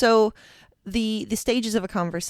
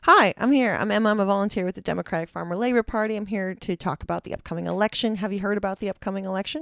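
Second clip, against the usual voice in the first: upbeat volunteer pitch, first line loudest; chirpy canvasser at the door; door-knocking script. Shown as a demonstration. Volunteer greeting a voter at the door, bright canvasser pitch. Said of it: "You have a script".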